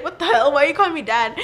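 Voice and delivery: mock-baffled boyfriend; lightly acted bewilderment; confused. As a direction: quote him in puzzled disbelief. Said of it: "her boyfriend's all confused".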